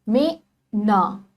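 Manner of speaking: मैं ना said slowly, the vowel in मैं stretched long; drawn-out vowel. Shown as a demonstration. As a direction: stretch the ai sound in मैं for the class. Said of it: "तो मैं पे खींचने की आवाज आ रही है".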